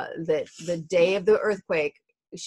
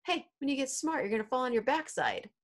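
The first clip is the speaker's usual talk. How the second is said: lightly voiced husband humoring a toddler; a hint of playful baby-talk; retold teasing husband; 4 semitones higher, 5 dB quieter than usual. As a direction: coo it a little higher and softer. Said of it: "he says".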